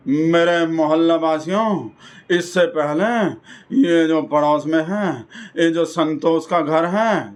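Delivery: slow, pompous neighbourhood address; a hint of a puffed-up local orator; mock speech. Rajesh addressing the neighbourhood on Independence Day, slow and pompous. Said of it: "तो पता ऐसे बोला था".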